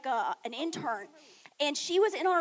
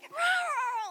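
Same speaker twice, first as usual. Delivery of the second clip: muffled scream; 10 semitones higher than usual. Retold or imitated. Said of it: "muffled freaking out".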